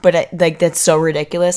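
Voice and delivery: stifled giggles. Real, not acted. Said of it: "how do you not laugh?".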